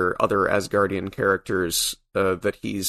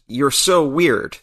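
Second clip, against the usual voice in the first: lightly imitated yell, higher and drawn out; mild retold yell; 5 semitones higher, 3 dB louder, slower than usual. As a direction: call it out slowly, as a half-hearted yell. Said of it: "he yells out".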